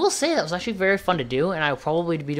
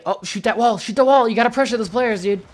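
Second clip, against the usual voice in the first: higher, louder shouts at the screen; loud urging; 5 semitones higher, 4 dB louder than usual. Real, not acted. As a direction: push the player to act now, calling out.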